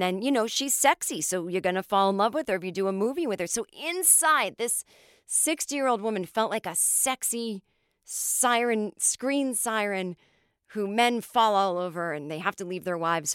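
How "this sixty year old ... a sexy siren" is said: ordinary talk, nothing marked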